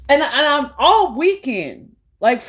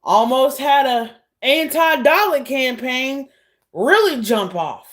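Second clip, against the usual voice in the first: mock sigh of relief into talk; imitated relief. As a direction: act out a relieved near miss. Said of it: "He was laughing like".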